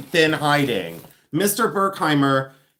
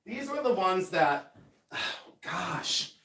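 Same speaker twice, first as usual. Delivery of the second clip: high calls from across the room; shouting from another room, pitched way up; yelling from far away; far-off screaming; 7 semitones higher, 12 dB quieter than usual. Real, not acted. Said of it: "Why am I still screaming".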